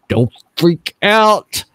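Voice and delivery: slow, stretched-out warning; emphatic warning. Retold or imitated. Repeating it to startled wife, slow and emphatic. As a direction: draw out each word to calm someone. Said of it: "I said".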